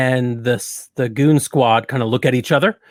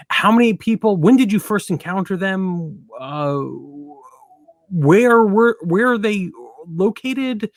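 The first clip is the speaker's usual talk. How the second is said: higher, eager questioning; higher eager goon voice; 6 semitones higher than usual. Acted. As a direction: pitch up, pepper them with questions. Goons eagerly questioning in character.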